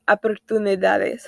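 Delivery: oportunidades said in Spanish; Spanish word. Shown as a demonstration. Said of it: "Et espagnol, c'est".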